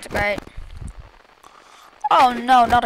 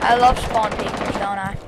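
sarcastic; 4 dB louder than usual. Real, not acted. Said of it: "I'm kinda raging about spawn peekers".

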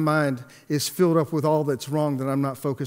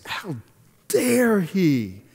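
a first, contained flash of offence; retold indignation; 3 semitones higher, much slower than usual. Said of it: "I got so mad".

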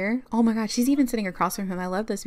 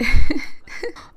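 sudden loud breathy laugh; loud burst of laughter; 8 semitones higher, 14 dB louder than usual. Real, not acted. Vlogger reacting to the upset sim, real loud laugh.

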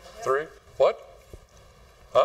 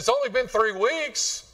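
much higher, mock-scolding wife; exasperated wife; 10 semitones higher than usual. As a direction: play the wife chiding her husband. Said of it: "his wife comes out there and says".

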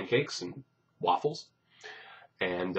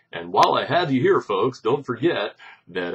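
announcer voice; 3 semitones higher, 6 dB louder than usual. Acted. Announcer-style plug.

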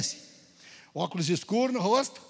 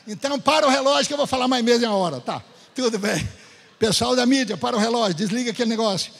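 playful command; 3 semitones higher, 6 dB louder than usual. Real, not acted. Joking order to media team.

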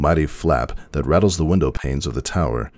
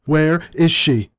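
high, louder slow yell; 13 semitones higher, 5 dB louder, slower than usual. A narrator's reading. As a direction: bellow it out desperately. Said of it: "Celestia yells".

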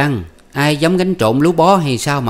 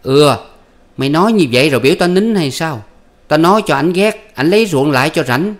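high, loud bickering voices; husband and wife arguing at night, high and loud; heated quarrel; 6 semitones higher, 5 dB louder than usual. Acted. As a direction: snap back and forth, pitch raised. Voiced marital quarrel continues.

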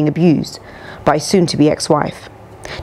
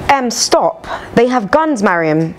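panicked; 6 semitones higher, slower than usual. Retold or imitated. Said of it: "Stacy's panic-stricken voice".

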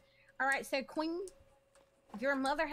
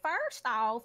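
loving tone; 6 dB louder than usual. Shown as a demonstration. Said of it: "but use a loving tone".

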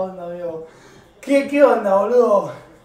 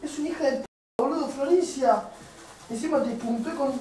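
quiet grumbling; 9 dB quieter than usual. Real, not acted. Grumbles off-mic about the purchase.

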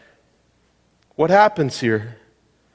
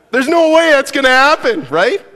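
emphatic; 10 semitones higher, 7 dB louder than usual. Real, not acted. Punchline to absurd soccer scenario.

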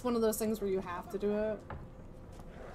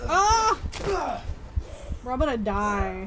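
panicking gamer; slower than usual. Real, not acted. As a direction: freak out as they close in. Fighting enemies, panicking.

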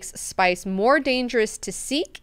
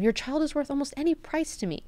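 lofty god-emperor; 9 semitones higher than usual. Retold or imitated. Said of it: "Leto tells him".

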